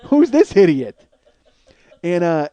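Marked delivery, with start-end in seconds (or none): 0.0-1.0 sputtering, then slow mock indignation; hackles up. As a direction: imitate a riled man, building to a louder finish. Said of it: "he got his hackles up".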